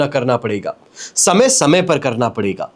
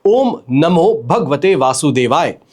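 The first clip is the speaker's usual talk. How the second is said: slow, measured mantra; unhurried recitation of a sacred mantra; 2 semitones lower, slower than usual. Shown as a demonstration. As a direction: recite the mantra slowly and deliberately. Mantra recited during instructions.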